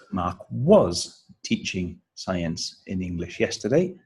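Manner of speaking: was leaps up, words after it spaced out; stress on was. Shown as a demonstration. Teacher showing the verb being stressed, stress on was. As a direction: hit "was" hard, rise at the end. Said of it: "the verb is being stressed".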